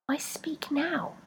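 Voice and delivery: slow breathy whisper; exhaled whisper. A narrator's reading. Rebecca addressing her feet, slow exhaled whisper. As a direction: breathe it out slowly. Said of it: "Rebecca exhaled".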